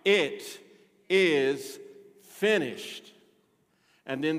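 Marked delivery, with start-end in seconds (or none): 0.0-3.1 triumphant proclamation. Retold or imitated. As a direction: proclaim it as a victory. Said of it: "the statement of triumph".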